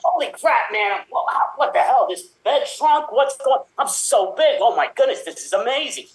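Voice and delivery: high, excited disbelief; high giddy wonder; amazed. Acted. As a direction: gasp at your new body. Kid amazed at being big.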